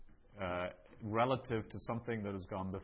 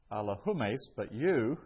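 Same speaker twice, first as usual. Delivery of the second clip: "you" punched louder after "humes"; emphatic you; 5 dB louder than usual. Shown as a demonstration. Teacher translates the emphatic pronoun, stressing "you" loudly. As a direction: hit "you" hard, set apart by a pause. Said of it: "is used for emphasis".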